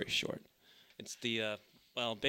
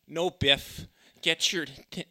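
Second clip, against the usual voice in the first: half-hearted Biff; 7 semitones higher, 4 dB louder, much slower than usual. Acted. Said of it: "do the Biff".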